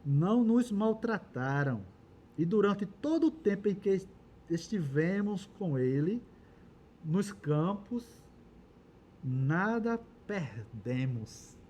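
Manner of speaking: slow, deliberate reading aloud; scripture reading. A narrator's reading. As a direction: read the testimony phrase by phrase, with pauses. Reads the servant's testimony from scripture.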